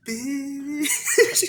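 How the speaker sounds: high squeaky laughing "Bitch"; mock retort laughing. Friend acting out his retort to the wife, laughing high. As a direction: blurt it out mid-laugh.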